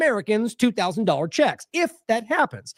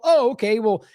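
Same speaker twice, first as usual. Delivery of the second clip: a touch louder, lightly mocking shrug; mock easy acceptance; 3 semitones higher, 3 dB louder than usual. Host mocking how officials would shrug it off, lightly mocking. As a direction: toss it off like a lazy excuse. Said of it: "you wouldn't then go".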